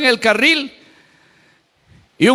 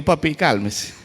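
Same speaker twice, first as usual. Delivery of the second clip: quiet, gentle calming of an angry man; soft coaxing; 9 semitones lower, 6 dB quieter, slower than usual. Retold or imitated. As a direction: talk him down softly, like to a child. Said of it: "Chiquito, así le digo".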